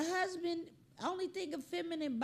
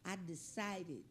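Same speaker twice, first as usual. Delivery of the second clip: softer, solemn mock poetry reading; mock poem recital; 5 semitones lower, 7 dB quieter than usual. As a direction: recite it like a grave little poem. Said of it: "If that dog wrote a poem".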